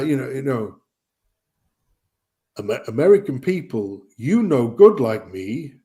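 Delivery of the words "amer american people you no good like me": mock broken-English AI bot. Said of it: "Chinese to English text thing pushed into an A I".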